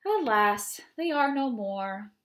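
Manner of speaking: expressive read-aloud of a rhyming poem. Acted. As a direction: read it to the children with lively rhythm. Reads ogre poem aloud.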